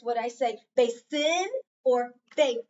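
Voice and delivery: "basin" said twice, the first take with a short closed first syllable, the second with a long open "bay"; contrasting pronunciations. Shown as a demonstration. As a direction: set two versions of "basin" side by side, ending on the long "bay-sin". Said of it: "would I say this word like this?".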